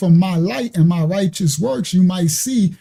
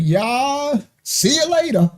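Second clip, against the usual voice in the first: smitten Adam; 5 semitones higher, slower than usual. Retold or imitated. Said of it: "he looked at her like".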